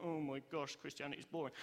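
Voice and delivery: dreary, fed-up grumble; sulking. Acted. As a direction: imitate a sulky, bored churchgoer. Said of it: "sulking, like".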